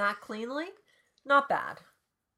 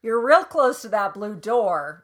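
blunt paraphrase; 2 semitones higher, 10 dB louder than usual. Pretend. Reader rewording Calvin's speech for normal people, blunt.

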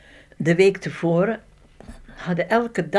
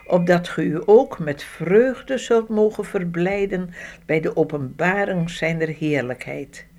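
scripture reading. Acted. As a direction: read the verses like a preacher. Reads Bible passage aloud.

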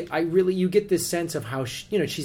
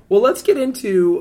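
nerd voice; 6 semitones higher, 8 dB louder than usual. Pretend. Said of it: "the Conan O'Brien nerd voice".

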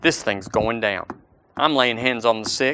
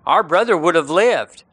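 grieving sisters' plea; 7 semitones higher, 3 dB louder than usual. Retold or imitated. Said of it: "they said".

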